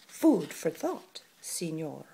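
slow, cold and whispered; icy. Acted. Martina icily dismissing the lizard. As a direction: freeze him out. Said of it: "Martina said icily".

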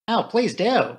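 high, delighted plea; eager cry. A narrator's reading. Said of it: "cried Flora".

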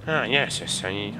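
half-managed cartoon villain voice; cartoon criminal voice. Gamer trying a half-remembered cartoon voice, crook impression. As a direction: attempt a cartoon crook's verbal tic. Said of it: "I can't do that voice".

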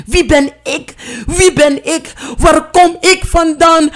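stijgend, steeds luider en hoger; wanhopige vragen. Acted. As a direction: vraag het steeds wanhopiger, opbouwend. Verwarde heldin roept vragen. (steeds wanhopiger roepend)

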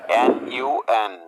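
এনইউএন ধীরে অক্ষর ধরে; টেনে টেনে বানান বলুন; slow spelled letters. Shown as a demonstration. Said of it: "আসুন এবার এই শব্দটিকে ভেঙে". (ধীরে বানান)

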